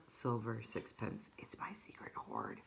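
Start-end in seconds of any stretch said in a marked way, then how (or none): 1.4-2.6 low, unvoiced conspiratorial whisper; secret whisper. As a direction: breathe it like a secret. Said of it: "he whispered".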